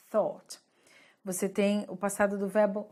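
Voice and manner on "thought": "thought" with the tongue tip between the teeth; a careful, isolated "thought" with voiceless TH; TH sound. Shown as a demonstration. Teacher demonstrating the hard sound for Brazilians, "thought" with a clear TH. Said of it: "a língua no meio do dente".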